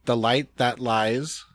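imitating an Irish accent. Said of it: "he's practicing this accent".

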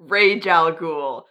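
"Rage al Ghul" slowly, first word like English "rage"; joke pronunciation. Shown as a demonstration. Host echoes co-host's joke version, slowly saying "Rage al Ghul". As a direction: draw out "Rage al Ghul" with a hard j sound. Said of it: "none of it is Rage".

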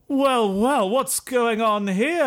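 high, lilting character voice; newly arrived figure. Acted. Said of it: "one of the sort of says".

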